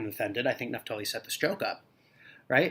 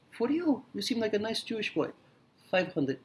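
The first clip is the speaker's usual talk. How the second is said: haggling shopkeeper; 8 semitones higher than usual. Acted. Shop owner haggling.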